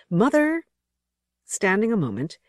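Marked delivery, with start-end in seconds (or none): 0.1-0.7 put-on child's desperate high call for mother. A narrator's reading. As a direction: shout it up high, searching for her. Lost child calls for mother.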